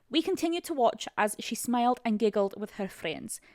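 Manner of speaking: put-on amateur Scottish accent; attempted Scottish accent. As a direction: read it with a shaky grasp of Scottish. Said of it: "My, my friend Molly is Scottish".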